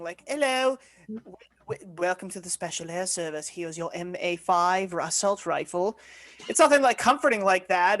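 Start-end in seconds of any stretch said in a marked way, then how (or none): 0.3-6.0 robotic announcer voice. Retold or imitated. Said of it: "It's not even, like, a comforting".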